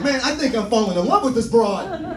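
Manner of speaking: mild hammed-up wiseguy in love; old-timey tough guy. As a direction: ham up a fifties gangster. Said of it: "I don't talk like that".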